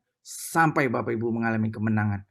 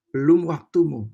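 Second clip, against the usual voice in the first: Holy Spirit; 4 semitones higher, 7 dB louder than usual. Retold or imitated. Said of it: "waktu saya dengar itu".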